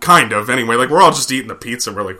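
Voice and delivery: ordinary delivery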